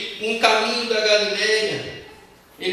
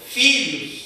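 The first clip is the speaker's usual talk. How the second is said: raised, falling call; 3 semitones higher than usual. Acted. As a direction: call out to your children across a distance. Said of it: "Ele gritou". (chamando os filhos de longe)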